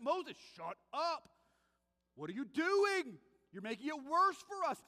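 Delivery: hammed-up complaint at Moses; mock angry Israelites. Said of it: "they get mad at Moses".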